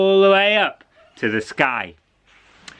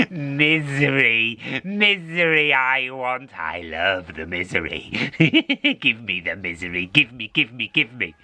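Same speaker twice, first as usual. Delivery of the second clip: greedy cat; 2 semitones lower than usual. Acted. Cat craving misery.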